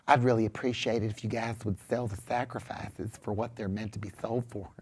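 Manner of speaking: very soft, low, mealy-mouthed southern man; effeminate little man. Acted. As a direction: plead meekly, barely above a murmur, with a southern accent. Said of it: "some little womanly man".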